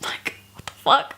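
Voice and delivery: breathy whispered disbelief; whispered aside. Real, not acted. Reader stunned by the fanfic, whispered aside. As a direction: mutter it under your breath in disbelief.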